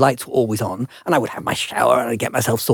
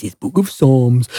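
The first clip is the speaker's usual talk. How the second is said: slow, lightly mimicked commentator; slower than usual. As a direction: stretch it out like a commentator. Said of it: "that commentating voice goes".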